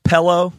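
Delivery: pillow said as "pellow"; regional pillow. Retold or imitated. Showing another word they say funny, regional pillow. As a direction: open the first vowel of pillow: "pellow". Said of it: "They say pillow".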